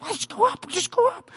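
high, soft coaxing voice; imitating the friend. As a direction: nudge her gently forward. Friend voiced urging her.

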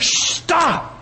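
high sharp shush; hushing. Pretend. Preacher hushes the imagined nitpicker, high sharp stop. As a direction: cut the nitpicker off. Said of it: "cutting off the objections".

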